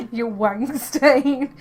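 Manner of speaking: slow mock Scottish accent. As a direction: imitate a drawn-out Scottish accent. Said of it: "in a Scottish accent".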